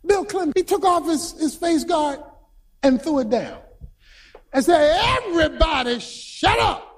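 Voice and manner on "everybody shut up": umpire's shout. Acted. Umpire silences two shouting teams.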